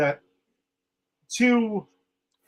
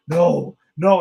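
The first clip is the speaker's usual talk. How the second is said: retold flip-out; 7 dB louder than usual. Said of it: "that's when he flips out".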